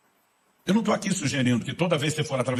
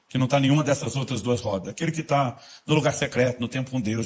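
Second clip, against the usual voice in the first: ordinary delivery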